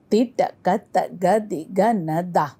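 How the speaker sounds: "Ti, ta, ka" in even pairs, two syllables a beat; double tempo. Shown as a demonstration. Teacher showing second, double of it, middle tempo. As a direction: recite at a steady middle tempo. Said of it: "Second double of it".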